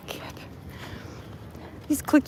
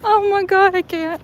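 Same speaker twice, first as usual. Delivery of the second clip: laughing; 8 semitones higher, 5 dB louder than usual. Real, not acted. Laughing hard while walking.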